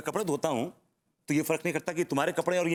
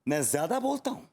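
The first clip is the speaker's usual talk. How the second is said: controlled, incredulous echo; affronted echo. Acted. Husband echoing wife's accusation, affronted but controlled. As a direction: hold back while questioning the accusation.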